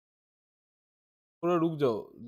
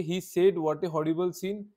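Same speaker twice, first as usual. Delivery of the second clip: slow, deliberate reading of the example; slow dictation; much slower than usual. Shown as a demonstration. Teacher reading the example to convert, slowly. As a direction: read it out slowly for the class. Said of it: "इसको कैसे change करेंगे?".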